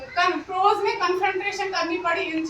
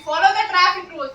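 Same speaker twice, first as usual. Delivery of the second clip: louder, deliberate command; firm command; 5 dB louder, slower than usual. Shown as a demonstration. Teacher commanding students to follow traffic rules, firm and louder. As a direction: lay down the rule firmly. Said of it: "I am giving you the command".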